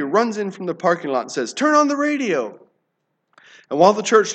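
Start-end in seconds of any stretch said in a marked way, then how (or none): 1.5-2.6 high, urgent call to the room. Acted. Man running in from the parking lot, urgent high call. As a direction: burst in crying out the news. Man runs into prayer meeting.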